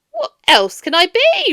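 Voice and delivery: loud, high, bitter retort; angry Scrooge. A narrator's reading. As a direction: snap back at him.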